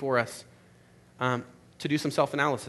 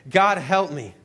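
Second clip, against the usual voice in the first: louder, anguished cry to God; desperate plea; 2 semitones higher, 4 dB louder, much slower than usual. Acted. Ghost begging God as the lizard dies, anguished. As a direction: put everything into the second plea.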